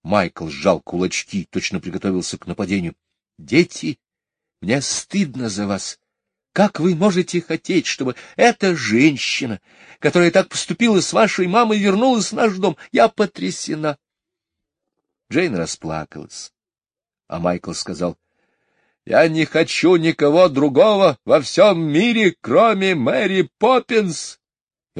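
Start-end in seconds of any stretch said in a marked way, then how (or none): 3.4-14.0 high, loud shaming lecture; high appalled mother; shocked mother. A narrator's reading. 19.0-24.4 high, loud pleading declaration; a child who wants only her; high tearful plea; boy near tears. A narrator's reading. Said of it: "громко заревел".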